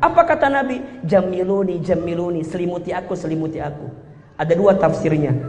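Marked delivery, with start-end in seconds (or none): 1.1-3.9 frightened plea. Retold or imitated. Frightened Prophet asks for cover.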